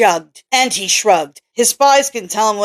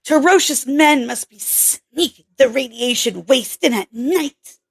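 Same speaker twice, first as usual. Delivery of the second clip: lightly raised voice for Kelly, a bit curt; a hint of a brusque young scientist; Kelly's voice; 6 semitones higher than usual. Kelly's voice held.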